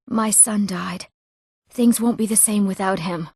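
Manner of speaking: even, restrained mourning; subdued grief. Acted. Bereaved villager telling of lost family, subdued and grieving.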